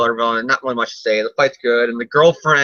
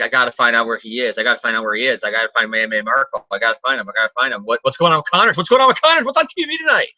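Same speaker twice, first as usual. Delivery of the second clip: mock frantic Peter; faster than usual.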